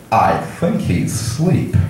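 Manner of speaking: slow mock old-man voice; lightly hammed-up elderly passenger, drawn out. Old man peering over at the gamer, slow elderly voice. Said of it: "The guy is old".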